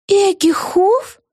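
very slow, high, gasping question; high gasped surprise. A narrator's reading. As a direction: gasp the name in shock. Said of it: "ахнула Вега".

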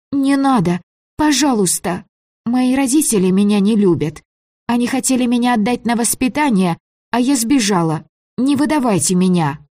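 put-on a child begging not to be handed over; begging girl. Frightened girl begs the stranger.

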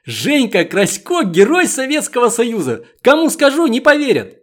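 a lad announcing a hero to the yard; excited shout. Acted. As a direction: exclaim it like you can't believe your eyes. Boy shouts a heroine's name.

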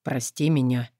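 low soft husky longing; husky sultry voice. A narrator's reading. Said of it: "с сексуальной хрипотцой голос".

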